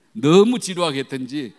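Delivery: ordinary delivery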